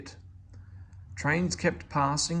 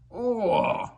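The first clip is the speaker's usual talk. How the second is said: groaned oh; 9 semitones higher, 4 dB louder than usual. A narrator's reading. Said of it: "he groaned".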